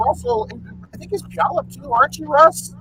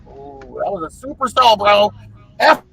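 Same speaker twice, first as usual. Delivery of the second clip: mock storm chaser yell; 5 dB louder than usual. Host imitating a storm chaser spotting a supercell, building to a shout. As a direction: hype up like an excited storm chaser. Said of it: "he's screaming around".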